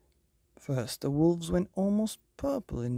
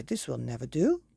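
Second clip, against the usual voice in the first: fussy fairy godmother; 3 dB louder than usual. Acted. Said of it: "said the fairy godmother".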